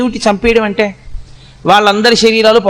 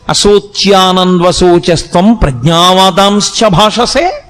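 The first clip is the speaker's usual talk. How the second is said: slowly intoned rebuke in verse; branding words, like a guru; scolding guru's verse; slower than usual. Acted. Krishna rebuking Arjuna, verse intoned slowly like a guru. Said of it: "వాత పెట్టి మాట్లాడాడు".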